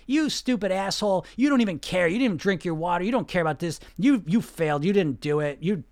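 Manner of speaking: acted scolding inner critic; negative inner voice. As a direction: berate yourself as a nagging inner critic, mildly hammed-up. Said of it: "this negative voice in my head starts saying".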